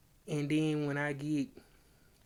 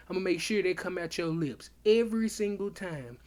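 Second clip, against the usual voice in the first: raised-pitch, emphatic self-promotion, retold; insistent boast; 3 semitones higher, 3 dB louder than usual. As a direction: hammer it home as if still arguing. Acting out his insistent boast in argument.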